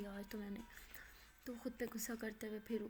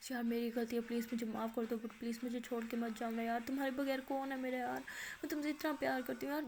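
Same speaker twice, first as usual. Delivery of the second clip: begging; 5 dB louder than usual. Acted. Begging forgiveness on her knees.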